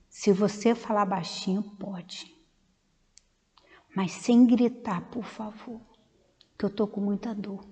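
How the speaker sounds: very soft, halting hospital-bed voice; weak patient's plea. Retold or imitated. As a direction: speak low and feebly, as if in pain. Weak patient in hospital asking visitors.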